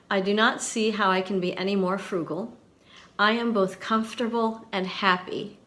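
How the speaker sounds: measured, emphatic read; slow, deliberate reading. Shown as a demonstration. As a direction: read it out slowly, pausing for weight. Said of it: "listen carefully".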